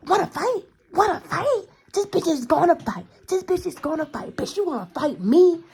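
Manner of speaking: high, loud mocking taunt, over and over; taunting yell. Retold friend shouting a dare at a rival girl, loud and high. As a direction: bait her into a fight with a yelled, sing-song dare. Beat Up A ones picks a fight.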